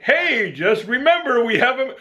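imagined office visitor. Pretend. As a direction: lightly play someone popping in to remind. Acting visitor calling into office.

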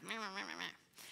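acted-out silent fuming; triggered inner grumbling. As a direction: grumble nonsense syllables under your breath. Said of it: "I'm just inside".

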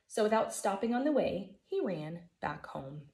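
put-on lively storybook reading for kids; gentle read-aloud for a class; reading to children. A narrator's reading. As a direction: read it like story time for first graders. Teacher reads picture book aloud.

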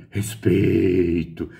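a slow, drawn-out, lofty "Respeito"; grand actress voice. Retold or imitated. Imitating a veteran actress saying respect with lofty slowness. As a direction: stretch it out like a proud old diva. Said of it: "E a Esperança".

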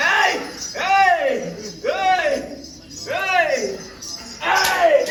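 loud, high repeated yells; commanding shout. Real, not acted. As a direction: shout sharply to subdue a spirit. Shouting at possessed person in ritual. (உரத்த அதட்டல் கூச்சல்)

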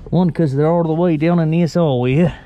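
put-on playful Australian accent; mock Australian accent. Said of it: "that's my Australian".

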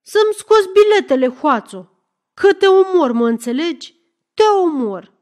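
very high, shouted, fast-starting tirade; furious threat. Acted. Lefter threatening to kill the thief, enraged shout.

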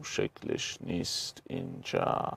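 a hushed aside while searching the page; whispered to himself. Real, not acted. Teacher notices the figure is missing, whispering to himself. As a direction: breathe it as a private mutter.

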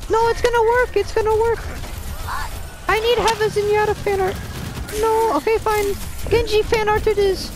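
Mercy voice. Pretend. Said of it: "This is the Mercy voice!".

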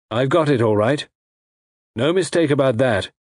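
a hint of a villain's self-assurance; disembodied villain voice. A narrator's reading.

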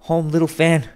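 schoolboy repeating his sister's word, lightly voiced; wondering boy. A narrator's reading. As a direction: echo her hopefully. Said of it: "returned the boy".

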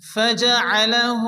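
فجعله with the final هُ held one beat; lengthened hu. Shown as a demonstration. Teacher showing students the inverted damma stretch. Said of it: "উল্টো পেশ, এক আলিফ টেনে".

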